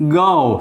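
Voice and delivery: "go" with a very short small a-glide start; model diphthong. Shown as a demonstration. Teacher to class, modelling the "go" diphthong. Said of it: "Small, very short A".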